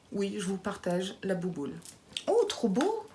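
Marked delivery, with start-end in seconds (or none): 2.3-3.1 high squeal of delight; thrilled high exclamation; delighted gasp. Real, not acted. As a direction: gush with sudden joy. Opening the box.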